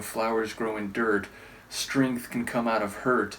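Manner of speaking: plain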